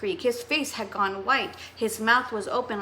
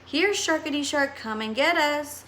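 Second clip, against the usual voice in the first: mock calling; 5 semitones higher than usual. Teasing call to shark.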